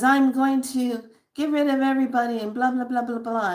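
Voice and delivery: angry giant being. Retold or imitated. Retelling a dream, a hint of the angry being's threat. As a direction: play the furious giant threatening everyone.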